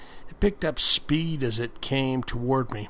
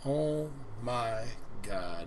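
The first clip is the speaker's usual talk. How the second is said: awed aside; 10 dB quieter, slower than usual. Real, not acted. Reader reacts to the story.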